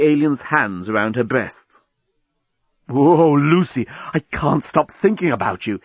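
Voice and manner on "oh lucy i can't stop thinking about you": mild lovesick swoon, fully voiced; amorous murmur. Smitten alien nuzzling Lucy's neck, amorous murmur. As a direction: moan it lightly with longing. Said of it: "he murmured as he nuzzled her neck".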